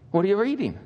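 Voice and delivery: a curious Norwegian traveller, mock Norwegian accent; mild Norwegian accent. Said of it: "He was Norwegian".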